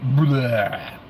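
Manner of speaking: long, dragged bleh of disgust; drawn-out bleh. Real, not acted. Noise for broken computer.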